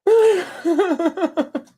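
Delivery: high mock disbelief ending in a laugh; mocking critic. Still mocking his critics, high and laughing. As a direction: squeak it in the critic voice then laugh.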